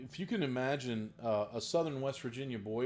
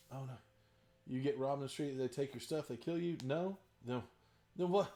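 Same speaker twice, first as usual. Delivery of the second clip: put-on Russian accent; 2 semitones higher than usual. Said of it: "orcs with a Russian accent".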